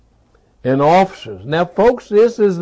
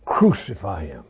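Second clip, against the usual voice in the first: retold crowd cry; 10 semitones lower, 6 dB quieter than usual. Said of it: "And they cried".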